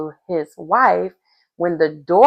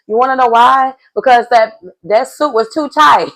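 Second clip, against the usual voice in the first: raised, higher, louder explanation; 5 semitones higher, 5 dB louder than usual. Real, not acted. Vlogger explaining the split pants to viewers, higher and louder. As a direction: make the point with a lift.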